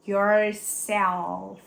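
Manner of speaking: "Yourself" with a firm l, not a u sound; clear final l. Shown as a demonstration. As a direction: press on the l. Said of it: "Esse L é bom também a gente dar uma implicada". ("Yourself" com o L bem marcado)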